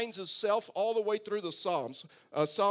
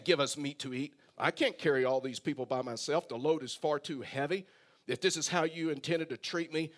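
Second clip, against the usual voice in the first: mildly whiny, put-upon complaint; 2 semitones lower than usual. Acted. Preacher resuming Moses' complaint to the Lord, in a whiny voice. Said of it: "read this in a whiny voice".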